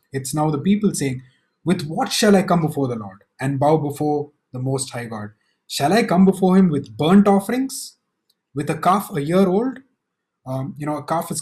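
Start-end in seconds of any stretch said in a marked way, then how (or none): 1.6-9.8 a touch of haughty scorn, rising on burnt offerings; arrogant reply. Acted. Preacher voicing the people's reply to God, mildly arrogant. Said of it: "read it in that tone, arrogant reply".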